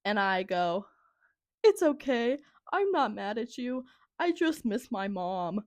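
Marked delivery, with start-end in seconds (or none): 1.6-5.6 mock tearful. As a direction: reassure someone through pretend tears, slowing at the end. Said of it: "I'm sitting there sobbing".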